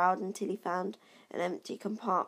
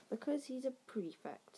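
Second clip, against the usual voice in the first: softer, proud, fond tone; mother proudly answering the twins; 7 semitones higher, 4 dB quieter than usual. A narrator's reading. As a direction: say it lovingly of your son. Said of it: "said the mother fondly".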